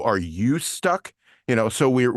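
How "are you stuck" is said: "you" stretched out for emphasis; stress on YOU. Shown as a demonstration. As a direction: lean slowly on the word "you". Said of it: "the word you".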